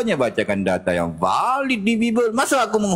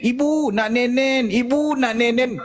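mock crying child; 7 semitones higher than usual. Child begging busy mother for milk, mock tearful whine. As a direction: whine like a little one pestering a parent. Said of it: "Nangis lagi dia kan".

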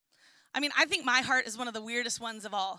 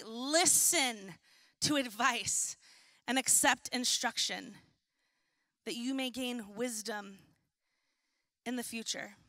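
measured, quieter verse reading; deliberate Bible reading, settling lower; scripture reading; 4 semitones lower, 3 dB quieter than usual. Real, not acted. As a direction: read it out in short phrases with pauses. Reads scripture aloud.

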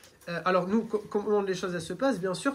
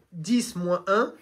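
slow louder count; 5 dB louder, much slower than usual. Shown as a demonstration. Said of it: "avec une voix qui va vraiment porter".

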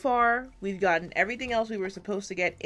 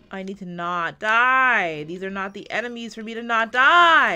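louder and louder, a desperate plea; stressed gamer pleading with the game; loud panic; 2 semitones higher, 9 dB louder than usual. Real, not acted. Panicking during a tough fight.

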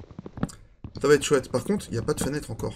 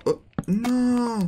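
scared horror game streamer; 11 semitones higher than usual. Real, not acted. Startled in game.

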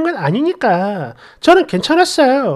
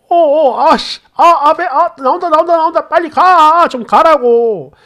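higher, rushed, desperate as it's coming out; urgent panicked pleading; 5 semitones higher, 4 dB louder than usual. Retold or imitated. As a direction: beg him out the door in a panic. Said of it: "이러면서 제 등을 엄청 강하게 떠미는 거예요".

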